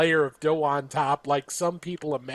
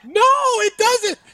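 higher, louder flat denial; insistent; 6 dB louder, slower than usual. Real, not acted. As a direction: shut it down hard. Heated pizza argument.

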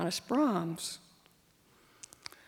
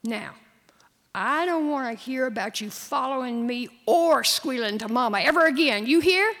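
whisper yelling; 3 semitones higher, 7 dB louder than usual. Acted. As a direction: whisper building to a shout. Boy threatening sister at night.

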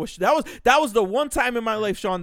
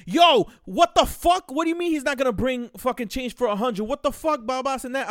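playing the furious caller; angry customer; 5 semitones higher, 4 dB louder than usual. Customer yelling on the phone.

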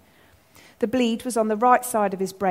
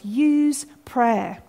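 slow, restrained earnest plea; imploring. Retold or imitated. God as Father to his forgetful children, imploring. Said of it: "He's imploring us".

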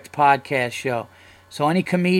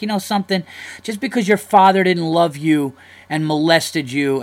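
raised, mock-angry telling-off; 3 semitones higher, 6 dB louder than usual. Fired-up comic telling off another comic, mock angry. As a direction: imitate a comic snapping at a heckler. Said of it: "they're just gonna be like".

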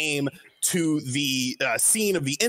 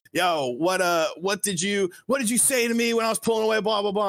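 put-on higher, rushed retelling of an angry girl; mock screaming; 6 semitones higher than usual. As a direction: imitate a screaming girl without really shouting. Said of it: "like, screaming at Elijah Wan".

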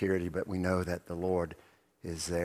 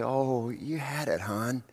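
slower, gentle comforting; a mother comforting her baby; tender mother; 6 semitones higher than usual. Acted. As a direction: soothe a fallen toddler. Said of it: "the mother with that little baby".

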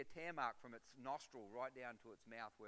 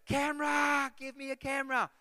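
high, loud shout for a camera; excited diver shouting to his mate; yelling; 13 semitones higher, 15 dB louder than usual. Retold or imitated. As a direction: call it out across the water. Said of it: "I just yelled out".

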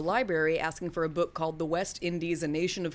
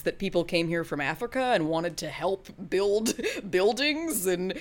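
mock outrage; 2 semitones higher than usual. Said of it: "I do think".

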